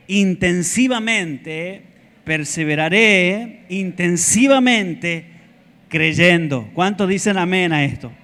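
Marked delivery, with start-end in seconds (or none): 0.1-6.7 slow forceful declaration. Acted. Congregation repetition, preacher leads.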